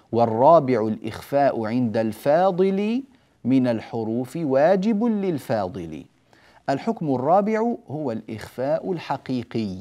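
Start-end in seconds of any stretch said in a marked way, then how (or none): 0.1-6.0 poem recitation. Shown as a demonstration. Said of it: "قال".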